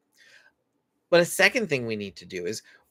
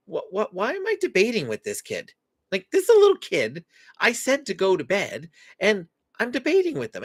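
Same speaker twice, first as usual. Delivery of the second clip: sudden realization; 4 semitones higher than usual. Retold or imitated. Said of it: "you all of a sudden go".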